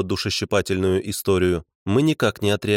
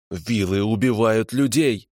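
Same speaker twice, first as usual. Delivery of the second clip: прошипел; 2 semitones higher, slower than usual. Acted. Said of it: "прошипел он".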